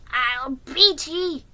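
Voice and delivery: slow, forceful angry yell; yelled threat. A narrator's reading. Jiggy threatening the rearing horse, angry yell. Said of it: "yelled Jiggy".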